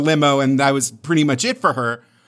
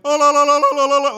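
Thermian laugh; 11 semitones higher, much faster than usual. Retold or imitated. Imitating how the Thermians laugh, high and sing-song. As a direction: trill it like a naive alien laughing. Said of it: "the way that they laugh".

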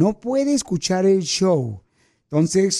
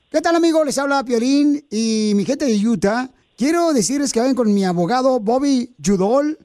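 ad read; 2 semitones higher than usual. Acted. Host recording the lawyer's commercial, upbeat. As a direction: sell the lawyer to the audience.

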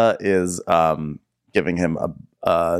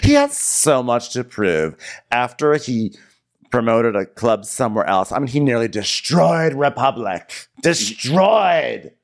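higher slow mock indignation; imitating T J; 4 semitones higher than usual. Cohost as T J condemning Mikkel, high mock indignation. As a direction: lean on Destroyed like a wounded insider.

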